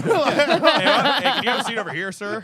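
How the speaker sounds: hint of TV confronter. Host inviting a caught man to sit, lightly hammed-up. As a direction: open loud and high, then ease off. Acted sting-show greeting, others laughing.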